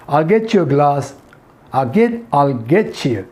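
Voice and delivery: American linked "get-chu"; slow down and link "get you" the American way; American accent. Shown as a demonstration. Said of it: "American accent". (American लहजे में)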